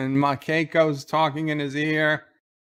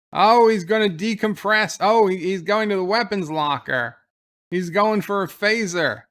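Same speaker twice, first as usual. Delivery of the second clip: higher, louder alarmed commentary; alarmed excitement; 4 semitones higher, 3 dB louder than usual. Real, not acted. Viewer reacting as O'Brien heads for the phasers, alarmed and excited.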